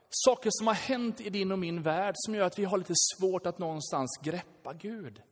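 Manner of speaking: ordinary talk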